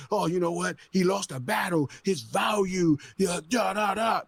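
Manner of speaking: a mocking record exec delivering bad news; mock label exec. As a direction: talk down like a smug suit cutting a deal.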